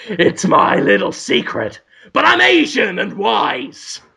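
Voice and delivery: comic secretive pet-store owner; Mister Miyagi. Acted. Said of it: "Mister Miyagi is there".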